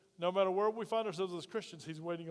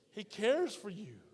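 congregation responds; slower than usual. Acted. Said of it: "say it with me".

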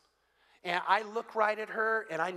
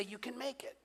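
gentle whisper; 12 dB quieter than usual. Pretend. God whispering comfort to a weary believer, a soft whisper. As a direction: breathe it, barely voiced.

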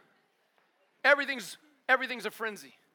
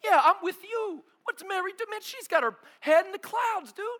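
higher, eager gossip voice; siding with Martha; 8 semitones higher, 5 dB louder than usual. Retold or imitated. Preacher siding with Martha against dreamy Mary. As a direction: egg Martha on, half joking. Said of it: "I'm like".

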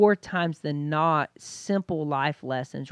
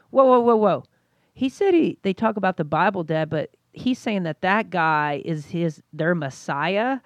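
put-on young son voice; 2 semitones higher, 5 dB louder than usual. Dad voices his young son.

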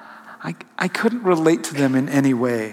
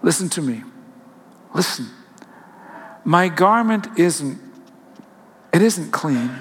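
soft pleading. Acted. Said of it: "a soft voice pleaded".

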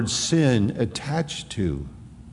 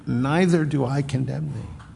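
gentle Savior. Acted. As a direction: offer Neither do I condemn thee as real mercy. Savior's offer to listener.

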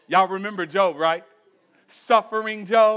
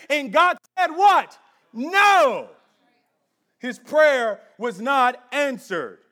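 raised-pitch, forceful sermon delivery; impassioned preaching; 4 semitones higher than usual. Acted. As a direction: preach it with punched key words.

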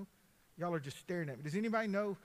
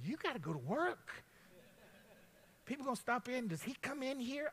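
a hint of a higher wife's voice, lightly voiced; wife nagging; 7 semitones higher than usual. Kelly telling her husband to go back to work, lightly voiced. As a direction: nudge him back to work.

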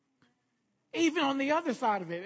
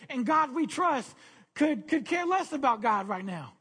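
raised, urgent sermon delivery; emphatic preaching; 3 semitones higher than usual. Real, not acted. Pastor warning the church that the world is sinking, emphatic preaching. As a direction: drive it home to the congregation.

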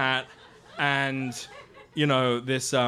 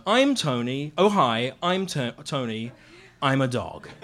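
lightly voiced dog, low; a hint of a simple dog voice; Tony; 5 semitones lower than usual. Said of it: "his voice is this".

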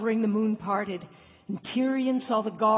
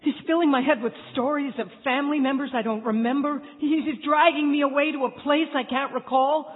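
panicked; 4 semitones higher, 4 dB louder than usual. Acted. Panicked inner doubt.

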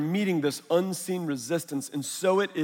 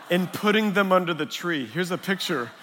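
laughing through it. Real, not acted. Laughing through son's confession.

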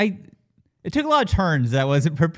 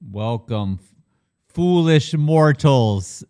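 spooky villain voice; 4 dB louder, much slower than usual. Acted. Spooky intro to movie club.

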